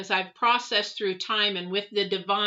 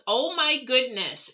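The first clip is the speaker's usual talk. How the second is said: higher, slowed amazed exclamation; surprised aunt; 5 semitones higher, slower than usual. Retold or imitated. Aunt hearing about the message from the dead sister, amazed. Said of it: "she goes".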